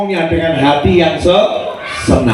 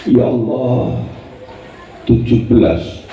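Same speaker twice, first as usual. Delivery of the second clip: complaining prayer; 6 semitones lower, 3 dB quieter, slower than usual. Shown as a demonstration. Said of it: "yang nggak utama dulu".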